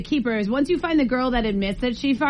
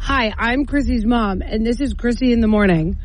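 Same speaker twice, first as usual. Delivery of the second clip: slow, spelled-out read of "Hi, I'm Chrissy's mom"; slow demo line. Shown as a demonstration. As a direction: dictate it slowly for mom. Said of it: "Tell me what to say".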